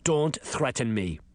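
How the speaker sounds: mildly angry principal; understated growl; growled warning. Acted. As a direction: warn with restrained anger. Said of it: "the principal growled".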